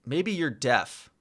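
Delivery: slow, dry teasing; slow tease. Real, not acted. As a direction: drag it out mockingly.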